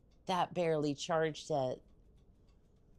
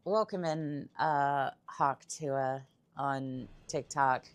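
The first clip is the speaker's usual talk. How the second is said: reluctant; slower than usual. Real, not acted. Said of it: "do I have to say it?".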